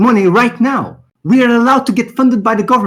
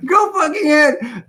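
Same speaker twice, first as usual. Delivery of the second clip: chuckling as he dares them; laughing taunt; 5 semitones higher, 3 dB quieter than usual. Real, not acted. Daring his haters to sue him, laughing. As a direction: laugh the dare out, softer.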